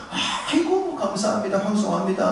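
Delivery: breathy high 아이고, then bowing thanks; mock humble stranger overwhelmed; fawning gratitude. Abraham to the king, a lightly mimed grovelling thanks. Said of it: "와서 언약 맺자 하면".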